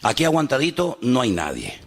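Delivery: aguantadito said firmly, falling, as the word not allowed; preacher's firm rebuttal; firm correction. Shown as a demonstration. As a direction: reject the word aguantadito with authority. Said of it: "Se tiene que hablar victoriosamente".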